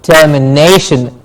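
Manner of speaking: "Termination" with the beat on "na", ter-mi-NAY-shun; stress on NA. Shown as a demonstration. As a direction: model "Termination" carefully, stressing "na". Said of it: "The ne gets a stress".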